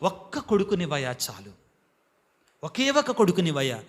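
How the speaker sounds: low, softly voiced plea to God; hushed, low imitation of a praying woman; humble plea. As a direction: lightly act out a mother's quiet begging. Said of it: "ఏమన్నదండి".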